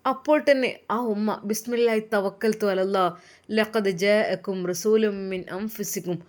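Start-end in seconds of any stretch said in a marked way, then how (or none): 1.5-6.2 reciting verses. Acted. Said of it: "ആയത്തുകളും ചൊല്ലി".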